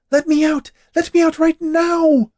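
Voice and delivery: high, loud furious witch, slowing; ranting witch. Acted. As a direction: rage and pound at the oven door. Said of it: "The witch ranted and raved".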